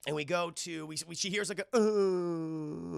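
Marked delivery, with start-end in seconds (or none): 1.8-3.0 drawn-out mock sob; muffled crying. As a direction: whimper like a hidden child. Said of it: "like someone's crying or something".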